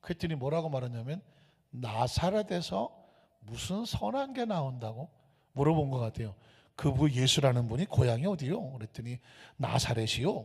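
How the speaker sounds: normal talking voice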